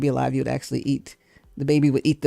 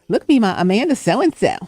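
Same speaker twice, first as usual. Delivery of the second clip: put-on little girl voice; 3 semitones higher than usual. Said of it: "little girl voice".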